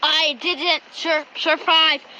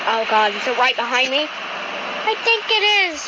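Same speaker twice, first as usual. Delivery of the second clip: wounded soldier gasping. Acted. Monster right behind him.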